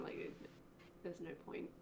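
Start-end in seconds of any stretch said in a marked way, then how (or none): 1.0-1.7 hushed, much softer aside; acted whisper. Player whispers to companion crouched beside him, hushed whisper. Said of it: "literally going to whisper to him".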